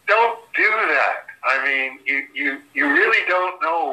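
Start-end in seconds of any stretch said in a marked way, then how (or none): 0.1-1.3 mock British disdain. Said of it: "it's like".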